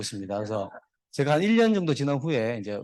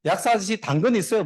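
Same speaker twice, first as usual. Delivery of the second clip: lightly voiced rabbit, higher pitched; storyteller's higher-pitched rabbit question; rabbit customer; 4 semitones higher, 3 dB louder than usual. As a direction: ask the pharmacist in a raised joke voice. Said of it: "토끼 돌아갔는데 다음날 또 와가지고".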